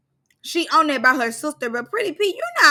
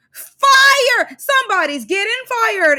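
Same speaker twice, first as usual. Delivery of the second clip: high, loud diva belt on fire; a pop diva's voice; 7 semitones higher, 5 dB louder, slower than usual. Retold or imitated. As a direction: belt it like a pop diva firing someone. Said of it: called her pop-star voice.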